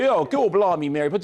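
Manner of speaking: jokey stage Cockney impression; mock Cockney. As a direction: send up a bad Cockney accent, Mary Poppins style. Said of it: "if you're complaining about accents".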